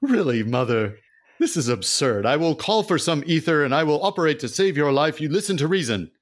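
high, loud whiny son protest; exasperated son. Acted. Son defends missing his mother's birthday, high and exasperated. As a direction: protest like a scolded grown son.

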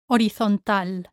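Horizontal as o-ree-thon-TAL; stress on A. Shown as a demonstration. Teacher models for learners, Horizontal stressed on the A. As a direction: punch the final A in Horizontal. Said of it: "stress falls on the A".

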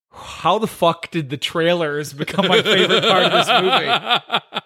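incredulous, half-laughing quote; laughing disbelief. Retold or imitated. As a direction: laugh through the question in disbelief. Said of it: "And walking out going".

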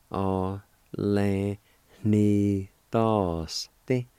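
"A, le, ni, dos, ti" broken into separate syllables with a pause after each; teacher sounding out "A, le, ni, dos, ti" syllable by syllable. Shown as a demonstration. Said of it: "It's pronounced like this".

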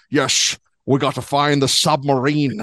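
lightly voiced Scottish Connery accent; a hint of Connery's Scottish burr; mock Sean Connery. Retelling the movie scene, imitating Connery's Scottish accent. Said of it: "he starts talking like".

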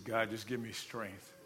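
low, soft, slow plea; retold weary prayer. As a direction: pray quietly for strength. Retold prayer under heavy strain.

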